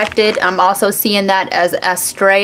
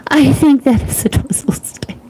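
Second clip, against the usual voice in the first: laughing; 6 semitones higher than usual. Real, not acted. Host rereading a viewer's comment to chat, laughing and higher.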